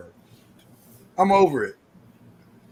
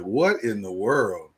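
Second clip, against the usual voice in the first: baffled reaction; 12 semitones lower, 6 dB quieter, slower than usual. Retold or imitated. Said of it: "you be like".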